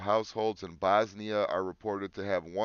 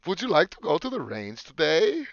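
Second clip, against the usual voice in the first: mock invitation; 8 semitones higher, 6 dB louder than usual.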